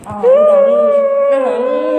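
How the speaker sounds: high, whiny coaxing; hammed-up crying game; mock wailing. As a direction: keep it up high like a crying kid.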